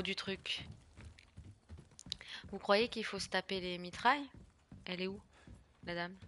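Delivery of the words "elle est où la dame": normal talking voice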